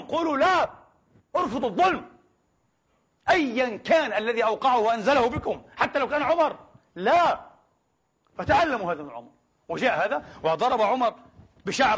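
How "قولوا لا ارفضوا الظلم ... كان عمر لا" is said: rousing call. Acted. Voicing Umar's rallying call.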